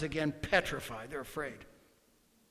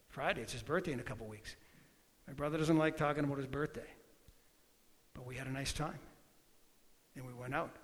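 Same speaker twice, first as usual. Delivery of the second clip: quieter, confiding tone; soft personal aside; 3 semitones lower, 5 dB quieter than usual. Real, not acted. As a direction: drop down and speak gently to friends.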